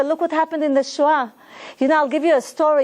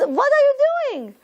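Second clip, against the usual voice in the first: much higher, startled question; a guard stunned by what he sees, astonished cry; 10 semitones higher, faster than usual. Retold or imitated. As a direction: gasp it out in disbelief. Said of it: "he was astonished".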